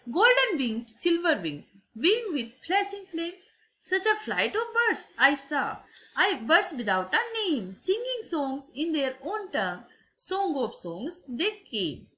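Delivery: slow, measured poem reading; poem recitation. Acted. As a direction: recite line by line with falling cadences. Reads the poem aloud.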